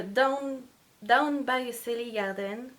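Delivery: a clumsy, hammed-up English accent on the title. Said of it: "vous allez entendre mon super accent". (accent anglais exagéré et maladroit)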